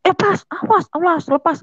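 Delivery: very high retold cry for release; seruan minta lepas. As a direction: imitate a father demanding to be let go. Bapak minta pitingan dilepas. (menirukan bapak berontak minta dilepas)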